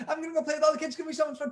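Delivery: put-on high, bouncy little girl voice; excited Clara. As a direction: play Clara bursting to go play.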